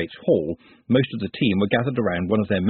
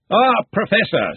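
smooth; 11 semitones higher, 4 dB louder, slower than usual. Acted. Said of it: "said Ridcully smoothly".

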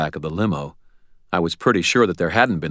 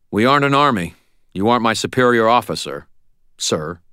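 heated defiance; 5 semitones higher, 5 dB louder than usual. Acted. Heated quarrel with mentor.

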